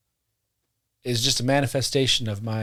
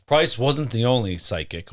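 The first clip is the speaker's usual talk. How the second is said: deep voice; 3 semitones lower than usual. Real, not acted. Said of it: "Whoa, I got a deep voice".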